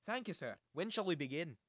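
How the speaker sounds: put-on Scottish accent. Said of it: "what voice am I doing now".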